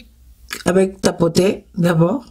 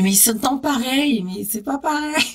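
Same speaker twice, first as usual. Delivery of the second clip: higher-pitched mock protest; puzzled self-quote; 6 semitones higher than usual. Recounting her early confusion to viewers, puzzled and high-pitched. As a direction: quote your own baffled objection, pitched up. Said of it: "je disais".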